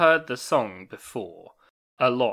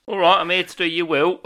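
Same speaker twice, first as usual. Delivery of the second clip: higher, louder hammed-up old man; old lawyer voice; 8 semitones higher, 9 dB louder than usual. Old lawyer arriving to write the will, hammed-up. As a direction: play the doddery old lawyer. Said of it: "old lawyer impression".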